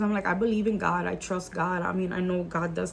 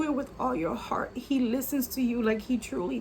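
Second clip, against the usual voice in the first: whisper; 5 semitones higher than usual. Real, not acted. Earnest point about prayer.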